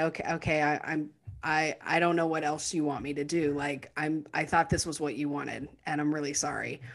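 a beaten man backing down quietly; resigned. Retold or imitated. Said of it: "he kind of resigns himself to say".

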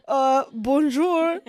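halting, hammed-up accent sliding into Italian; loud, fumbling fake French-turned-Italian accent; put-on foreign accent. Telling Paris police about the friend, hammed-up foreign accent. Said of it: "I'm sounding more Italian".

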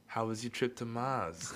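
hint of Austrian accent; Arnold Schwarzenegger. Friend asks after weekend in code, light mock Austrian accent. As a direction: lightly mimic an Austrian film star's accent. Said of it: "we would say it in Arnold's accent".

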